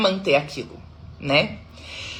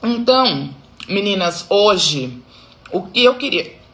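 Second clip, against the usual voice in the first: chewing while talking. Real, not acted. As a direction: mouth full of egg. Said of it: "quase engasguei com o ovo". (falando de boca cheia)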